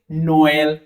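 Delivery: नोएल said slowly as no-el, each vowel clear; calm French demo. Shown as a demonstration. Teacher showing students how to say नोएल slowly and plainly. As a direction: read नोएल calmly, no stretching. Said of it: "आराम से पढ़ो".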